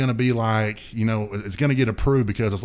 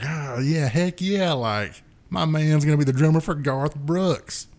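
excited cheer; 5 semitones higher than usual. Retold or imitated. Friends cheering him off.

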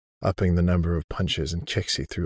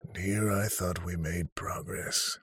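put-on creepy old man voice; 6 dB quieter, slower than usual. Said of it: "the voice of a creepy old man".

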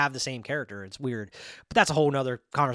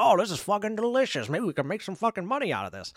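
higher, hammed-up voice of a worker tasting the goo; mock delighted worker; 6 semitones higher than usual. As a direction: play the greedy worker, delighted with his find. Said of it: "He's like".

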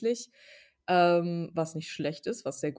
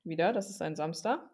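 talking while chewing. Real, not acted. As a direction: mouth full of mandarin. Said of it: "ich esse grad eine Mandarine".

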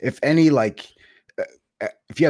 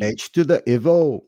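laughing catchphrase; 5 semitones higher, 6 dB louder, slower than usual. Real, not acted.

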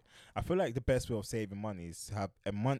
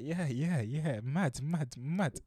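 forced polite agreement, a bit higher; fake interest; 5 semitones higher, much slower than usual. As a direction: nod along to a boring uncle. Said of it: "trying my best to be part".

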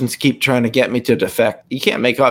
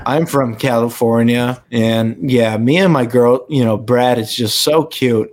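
put-on Valley Girl accent. Shown as a demonstration. Girl from California gushing over Brad, light Valley Girl. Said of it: "what's your best Valley Girl, like, accent".

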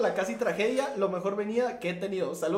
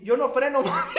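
laughing yell; 5 semitones higher, 4 dB louder than usual. Retold or imitated. Retold shout while laughing.

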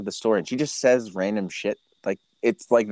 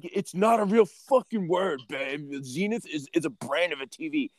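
mock outrage; 5 semitones higher than usual. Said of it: "I was like".

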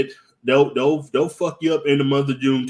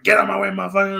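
mildly aggressive demand, pitched up; 4 semitones higher, faster than usual. Acted. Aggressive gay man shoving past riders, mildly aggressive. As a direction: act out a pushy subway rider. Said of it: "If you is aggressive".

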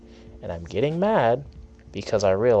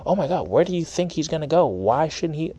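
mocking pundit chatter; 6 semitones higher than usual. Mocking sports pundits' fans.

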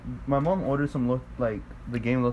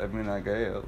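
lower, lightly drawled Southern imitation; 3 semitones lower, 4 dB quieter than usual. Imitating a friend's reply, light Southern drawl. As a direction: imitate her Southern drawl, low and understated. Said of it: "that's how she talks".

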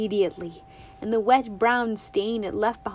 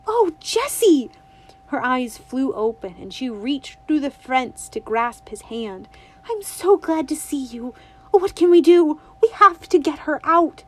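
put-on eager young girl, pitched higher; a bright little girl asking her granny; girlish and eager, lightly voiced; Winnie's voice; 5 semitones higher, 6 dB louder than usual. A narrator's reading. Winnie overjoyed, then urgent.

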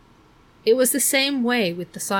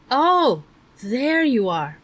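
bright relieved cry, higher and louder; little brother overjoyed to see Meg again; 4 semitones higher, 4 dB louder, slower than usual. A narrator's reading. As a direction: burst out in relief at finding her. Relieved to find his sister.

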